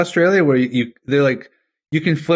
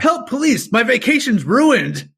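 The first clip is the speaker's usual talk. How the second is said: much higher, slow whiny cry for help; mock bear victim; 9 semitones higher than usual. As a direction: ham up a tourist fretting over the trip.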